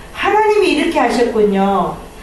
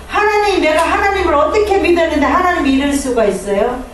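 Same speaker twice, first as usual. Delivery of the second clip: mock cry to God, higher; resentful wail; 4 semitones higher than usual. Believer who lost a child cries out against God, mock wail. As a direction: wail the complaint like a hurt believer. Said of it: "원망한다라는 거죠".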